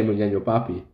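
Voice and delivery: words swapped, said in reverse order; backwards speech. Shown as a demonstration. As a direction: say the name backwards. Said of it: "But I'll say it backwards".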